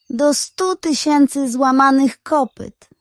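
a touch of angry hissed oath. Acted. Detective dropped his flashlight in the dark, mild angry hiss. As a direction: spit it out in frustration, lightly voiced. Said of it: "syknął ze złością".

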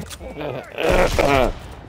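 high croaky laugh breaking up; voice giving out. Real, not acted. Player losing his voice, croaky laughing. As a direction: laugh until the voice catches. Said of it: "I'm losing my voice".

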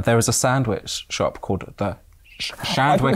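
put-on Scottish accent. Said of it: "when we were in Edinburgh".

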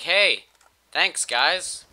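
goofy character voice. Acted. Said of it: "he stands up and he's like".

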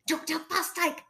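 high, anxious little plea; fussing. A narrator's reading. Fred hiding failure from Fosdyke, fussing. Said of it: "fussed Fred".

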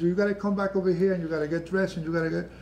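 mild mock tearful urging; retold crying mother. Mother on phone urging son home, lightly tearful. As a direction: imitate a weeping mother hurrying him, understated. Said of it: "she's crying".

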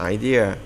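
idea drawn out as "ai-đi-a" with a falling end; careful pronunciation. Shown as a demonstration. Teacher repeats idea for students to copy. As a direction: say idea clearly for the class. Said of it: "Idea các bạn".

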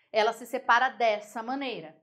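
ordinary talk

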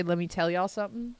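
light Southern twang on a stock phrase; Southern drawl. Shown as a demonstration. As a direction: let a mild Southern accent slip out. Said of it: "it does come out when I say".

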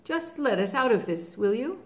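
lion commanding. Acted. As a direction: call the order up to him.

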